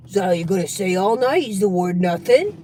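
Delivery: lightly voiced needling relative, low and fast; nosy relative. Relative challenging a guest's non-answers, nosy and needling. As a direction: press low and quick, lifting at the end.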